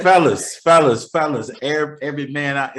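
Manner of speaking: loud, high call to the fellas; rallying shout to the fellas. Real, not acted. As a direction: call out to all the men. Calling out to men.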